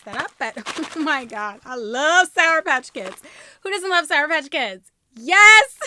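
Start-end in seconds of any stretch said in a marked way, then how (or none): 5.2-5.8 a loud, thrilled yes; real excited cheer; excited yell. Real, not acted. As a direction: burst out with joy. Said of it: "I am so excited".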